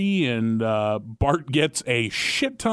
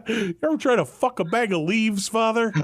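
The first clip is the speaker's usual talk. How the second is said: taxi driver voice; 8 semitones higher than usual. Retold or imitated. Mock confession to pastor.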